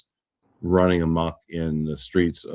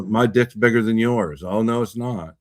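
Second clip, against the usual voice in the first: mock bickering; 5 semitones higher, 4 dB louder than usual. Acts out a pissing match.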